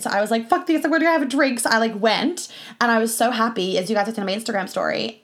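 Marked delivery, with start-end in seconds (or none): 0.5-1.6 excited. Retold or imitated. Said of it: "I was just too excited".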